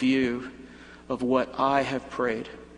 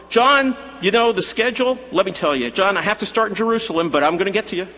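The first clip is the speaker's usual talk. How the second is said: louder, higher, hurried explaining; Jesus explaining schedule; 5 semitones higher, 4 dB louder, faster than usual. Pretend. Jesus explaining to John the delay, higher and hurried. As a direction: talk John through the delay, pacing it fast.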